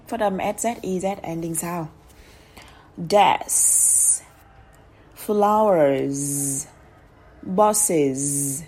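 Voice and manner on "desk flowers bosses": each word said alone with a drawn-out final s or z; teacher's word list, endings held long; careful model pronunciation. Shown as a demonstration. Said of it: "thì phải đọc chuẩn". (đọc chuẩn, kéo dài âm cuối)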